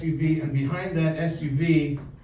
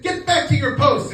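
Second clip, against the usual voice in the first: high, loud bluffing command; mock stern order; 11 semitones higher, 6 dB louder than usual. Marcher bluffing a toy soldier, high barked order. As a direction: order him off with false authority.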